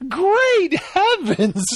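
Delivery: put-on high, very slow, quavering old lady. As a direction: draw out Great heavens like a sweet granny. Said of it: "I love the way she says".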